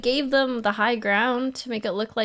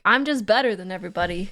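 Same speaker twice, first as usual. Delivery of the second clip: smug; 5 semitones lower, faster than usual. Retold or imitated. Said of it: "the ego on this guy".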